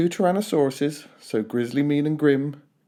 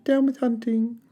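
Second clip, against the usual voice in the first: much higher gentle hoot; young dinosaur's peaceful chant; hooting Drip; 10 semitones higher than usual. A narrator's reading. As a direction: hoot it sweetly like a duckbill. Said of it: "he hooted".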